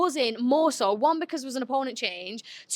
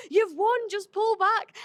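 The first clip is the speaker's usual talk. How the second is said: higher, straining coach's yell; mock cracking yell; 8 semitones higher, much slower than usual. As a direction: imitate a corner shouting his voice hoarse. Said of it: "his voice was cracking".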